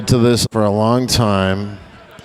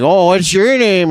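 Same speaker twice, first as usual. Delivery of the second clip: high, slow mock-flirt; 10 semitones higher, 5 dB louder than usual. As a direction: chat her up, hammed-up. Drunk guy hitting on clerk.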